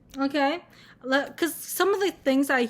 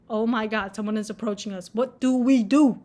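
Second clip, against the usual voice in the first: mock panic; 3 semitones lower than usual. Vlogger voicing her personal bubble, mock panic. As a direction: play the panicking inner alarm.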